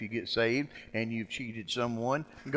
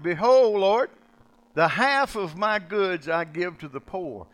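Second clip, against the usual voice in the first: loud, slow biblical declaration; a rich man announcing his gift, loud and slow; proclaiming; 7 semitones higher, 10 dB louder, slower than usual. Acted. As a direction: call out the vow like Zacchaeus. Voicing Zacchaeus's declaration.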